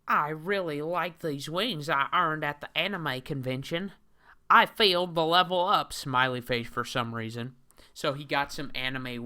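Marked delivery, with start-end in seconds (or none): 0.1-5.9 high, loud mocking nerdy whine; hammed-up high whiny man voice; Christian Weston Chandler. Reads the comic hero's own words.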